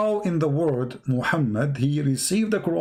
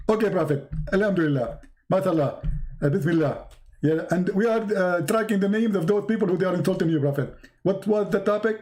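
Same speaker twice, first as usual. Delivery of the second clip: lightly mimicked lisping preacher, pious filler; Zakir Naik as Jibreel; 2 semitones higher, faster than usual. Angel stalls Muhammad, lightly hammed forgetful preacher. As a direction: ramble in mock piety, then forget. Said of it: "You look like Zakir Naik".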